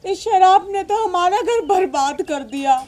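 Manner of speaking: sobbing mother's lament; crying. Acted. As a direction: cry through the words, sinking at the end. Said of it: "आप रो क्यों रही हो". (रोते हुए दुखड़ा सुनाना)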